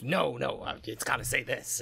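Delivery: a clone bickering with itself; arguing clone. Acted. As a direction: argue it out loud like a mad painter. Clone argues with himself.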